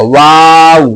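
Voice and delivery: वाव with the mouth opening, then closing round; teacher models वाव, lips rounding shut; rounded waw. Shown as a demonstration. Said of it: "मुंह खुलेगा फिर बंद हो जाएगा".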